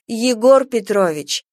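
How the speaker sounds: slow, pleading exasperated call. Acted. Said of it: "не выдержала Анна Аркадьевна". (с отчаянием)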